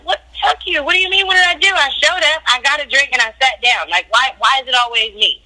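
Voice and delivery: reenacted exasperated rant at the producers; retold indignant outburst. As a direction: fire back like you're always blamed.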